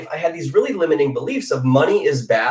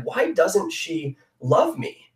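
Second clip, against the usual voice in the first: slow, softer, hurt question to his wife; choked-up plea; 3 semitones higher, 4 dB quieter, much slower than usual. Retold or imitated. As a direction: let it catch in the throat, slowly. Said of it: "getting teary-eyed and choked up".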